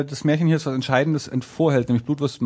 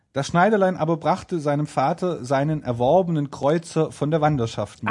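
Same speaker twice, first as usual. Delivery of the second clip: measured storybook reading; fairy-tale narration. A narrator's reading. Narrator telling of the tailor's homecoming, storytelling. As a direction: round off the tale in a reader's voice.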